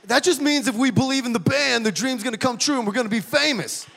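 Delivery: put-on sing-song like a starstruck kid; mock naive rock-star hope; naive excitement. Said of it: "All I said was".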